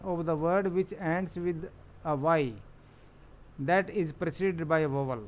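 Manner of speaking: slow, deliberate reading of a textbook rule; slow rule dictation. Acted. Teacher reading the rule to her pupils, slow and deliberate. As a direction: spell out each phrase slowly for the class. Reads spelling rule aloud.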